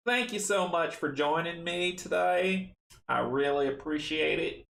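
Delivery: put-on playful try at the Arkham Horror accent. Signing off the stream, trying the Arkham Horror accent. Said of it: "in the accent from, from Arkham Horror".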